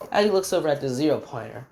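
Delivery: ordinary delivery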